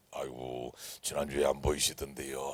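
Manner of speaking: lightly acted pastor on the phone, low and soft; phone-call imitation. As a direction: gently check on an absent member. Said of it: "내가 전화하거든요". (낮고 부드럽게 안부 전화하듯)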